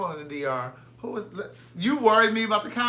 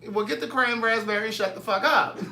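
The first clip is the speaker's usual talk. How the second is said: light sassy bark; a hint of a bossy singer; impression of a singer; 4 semitones higher than usual. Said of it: "That's what a singer said on, uh, on Harlem Nights".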